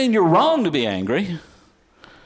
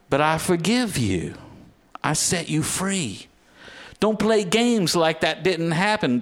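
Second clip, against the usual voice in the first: voice of forgiveness. Acted. Voicing Jesus forgiving the listener.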